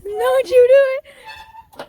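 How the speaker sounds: loud, high warning. Real, not acted. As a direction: stop him with a sharp warning. Warning friend.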